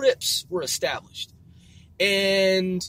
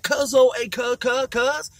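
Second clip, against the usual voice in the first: lightly parodied gang greeting, higher voice; raised, repetitive mock hailing; imitating Crip talk; 5 semitones higher than usual. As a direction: call out slang in a mock impression. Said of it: "They talk like this".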